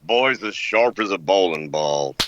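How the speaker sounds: a hint of a blustery cartoon rooster; Foghorn Leghorn. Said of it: "I'll do Foghorn Leghorn".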